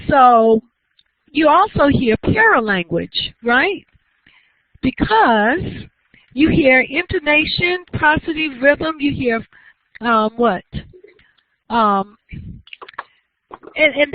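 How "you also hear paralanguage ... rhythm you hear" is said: higher pitched, sing-song teacher intonation, riding up and down; lively intonation demo. Shown as a demonstration. Teacher showing students how intonation sounds, in a lively sing-song. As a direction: show off the melody of speech as you explain it. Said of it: "listen to me talk".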